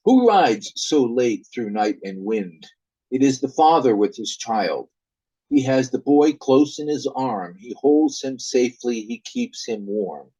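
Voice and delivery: measured narrator setting the night scene; ballad narrator. Acted. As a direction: read the opening like a ballad teller. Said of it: "This is the narrator".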